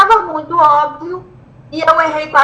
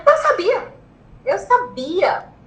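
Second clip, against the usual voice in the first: high squeal, then drawn out; imitated delighted reaction; re-enacted excited friend; 6 semitones higher, slower than usual. Friend's excited reply, retold.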